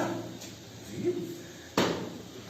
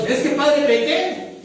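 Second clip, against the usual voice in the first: mock confession; 7 semitones higher, 4 dB louder, much slower than usual. Acted dialogue sinner and God.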